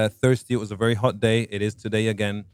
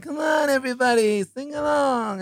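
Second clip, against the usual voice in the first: stoner voice; 13 semitones higher than usual. Retold or imitated. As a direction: shout it like a chilled-out surfer frontman. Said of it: "he's always got that kind of stoner thing".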